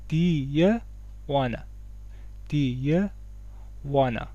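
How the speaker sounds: "دی، یه" in separate beats, then "wanna". Shown as a demonstration. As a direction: break it up for learners: "دی", "یه", "wanna". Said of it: "یه دی کامل تلفظ کنید". («دی، یه، wanna» شمرده و جدا)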